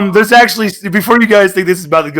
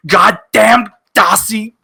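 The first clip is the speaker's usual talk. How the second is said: Charles dance-mad; 3 semitones higher, much slower than usual. Pretend. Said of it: "doing that dance mad thing and going".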